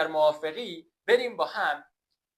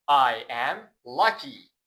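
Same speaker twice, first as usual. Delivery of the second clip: slow model sentence; 3 semitones lower, 5 dB louder, much slower than usual. Shown as a demonstration. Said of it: "teacher models sentence".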